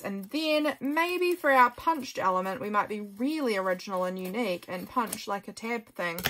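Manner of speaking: oversell it, tongue in cheek; sarcastic. Real, not acted. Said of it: "I'm being absolutely sarcastic".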